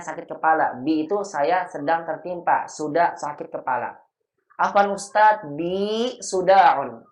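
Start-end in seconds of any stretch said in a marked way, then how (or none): 4.6-7.1 higher, louder plea, stretched slowly; mock sick student. Student begging the ustadz's pardon, mock ailing. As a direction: drag out the excuse like an ailing pupil. Student excuses self to teacher.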